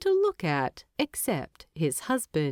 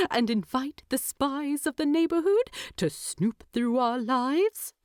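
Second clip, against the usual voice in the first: higher, indignant hobbit teasing his husband; mock outrage, pitched up; voiced Bilbo; 5 semitones higher than usual.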